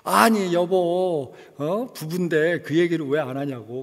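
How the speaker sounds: mild mock anger from the wife; wife angrily scolding. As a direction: play the upset wife demanding why. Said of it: "막 화를 내더라고요".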